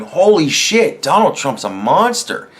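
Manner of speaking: mock shocked viewer, slow and drawn out; outraged gasp. A fan reading the article, mildly shocked and outraged. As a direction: play the gullible viewer swallowing it whole. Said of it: "instead of doing what you did and going".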